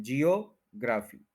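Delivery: जियोग्राफी as jee-o-GRAA-fee, full long A; common mispronunciation. Shown as a demonstration. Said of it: "इसको जियोग्राफी नहीं बोलेंगे".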